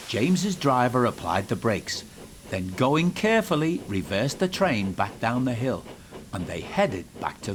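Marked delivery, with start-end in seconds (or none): none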